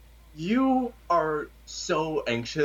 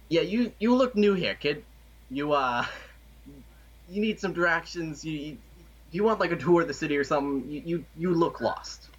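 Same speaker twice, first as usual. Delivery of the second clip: shady street hustler; 4 semitones higher than usual. Acted. GM voices shady alley man.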